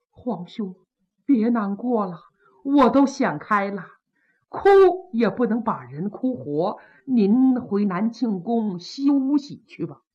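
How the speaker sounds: subdued consoling, unhurried; mildly tender acted pleading; gentle persuasion. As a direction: talk a grieving brother round. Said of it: "站起来相劝".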